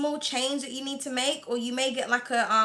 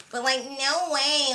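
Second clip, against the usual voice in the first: slow, whiny mock American accent; drawn-out parody of an annoying American voice; Kardashians; slower than usual. Shown as a demonstration. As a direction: stretch the words like an American reality star. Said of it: "how people can watch the Kardashians".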